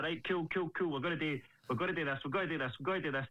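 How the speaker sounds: rattled off fast, nodding along; fast, breezy yes-yes-yes to the coach; mock eager agreeing. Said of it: "And I'll be like".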